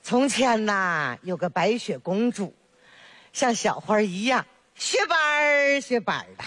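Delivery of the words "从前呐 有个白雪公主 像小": put-on storytelling to a baby. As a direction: stretch it out like a grandma starting a fairy tale. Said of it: "给你看着画儿讲吧".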